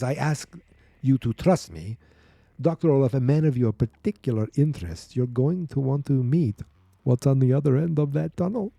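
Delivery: lightly put-on Russian accent; bad Russian accent. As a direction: voice a doctor in a mock Russian accent. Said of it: "I'm gonna do some bad Russian accent".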